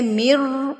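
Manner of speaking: مر slow, the m pressed and held; strong doubled meem. Shown as a demonstration. Teacher models مر with a strong doubled m. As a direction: press the shaddah in مر. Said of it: "مر کو مضبوطی سے پڑھنا ہے".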